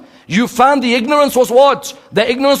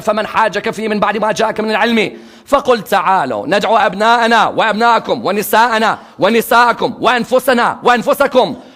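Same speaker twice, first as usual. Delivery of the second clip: rapid recited Arabic verse, fast; fast Arabic recitation; Quran recitation; much faster than usual. Acted.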